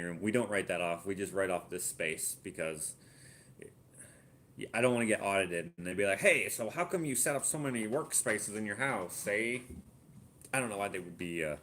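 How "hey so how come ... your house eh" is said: a hint of a jokey Canadian auditor accent; playful Canadian-accent tax man, lightly voiced; mock Canadian accent. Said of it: "having that accent".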